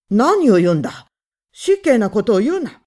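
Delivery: loud, outraged shouting; angry shout. A narrator's reading. Husband shouting down the accusing visitors, loud. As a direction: bellow him off the doorstep.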